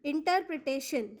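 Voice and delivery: इंटरप्रिटेशन set apart, ending in शन; pronunciation demo. Shown as a demonstration. Teacher gives correct pronunciation, इंटरप्रिटेशन sounded out carefully. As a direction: model इंटरप्रिटेशन clearly as इंटर-प्रि-टे-शन. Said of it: "इस शब्द का सही उच्चारण होगा".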